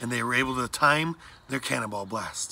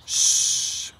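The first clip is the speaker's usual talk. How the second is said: sharp voiceless hush; whispered shush; 4 dB louder than usual. A narrator's reading. Mom silencing Blackbird as pirates pass, whispered. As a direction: shush them urgently under your breath. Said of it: "John's mom whispered".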